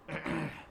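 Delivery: throat clear as a sly hint; pointed throat clearing. Real, not acted. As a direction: clear the throat to allude to someone.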